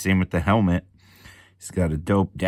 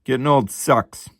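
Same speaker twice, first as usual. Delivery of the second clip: mock lament; 6 semitones higher, 5 dB louder than usual. Real, not acted. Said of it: "My eyes are shit".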